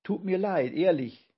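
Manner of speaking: high, loud show of being sorry; feigned regret. A narrator's reading. Giant pretends to regret trapping grandpa, feigned regret. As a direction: overdo the apology a little. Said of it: "der so tat, als ob er mit einem Mal bereute".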